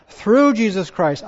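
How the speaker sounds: "Through Jesus Christ" slowed and leaned on; emphatic. Shown as a demonstration. Preacher underlining a verse for the congregation, slow and emphatic. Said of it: "I just want to emphasize that".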